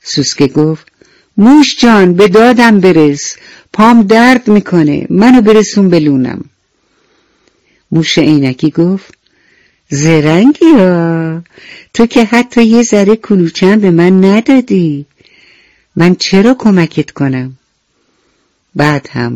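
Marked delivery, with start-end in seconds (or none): 1.4-6.4 pleading beetle. Acted. Hurt beetle begging the mouse to carry him home, higher pleading voice. 9.9-17.6 mouse scolding. Acted. Mouse rebukes beetle.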